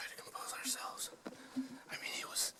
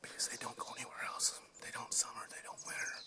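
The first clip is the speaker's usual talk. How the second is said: whispering. Real, not acted. Whispering on a hunt.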